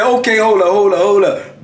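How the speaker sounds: comic retold second thoughts; alarmed backing down. His mind pleading, about to give in.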